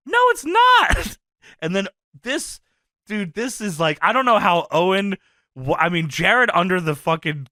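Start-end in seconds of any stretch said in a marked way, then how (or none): 0.1-1.2 high, slow, loud shouted denial; Lawler impression. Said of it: "And Lawler says".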